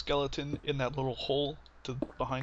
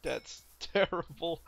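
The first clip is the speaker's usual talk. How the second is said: laughing; 4 semitones higher, much slower than usual. Real, not acted. Laughs at failed fight.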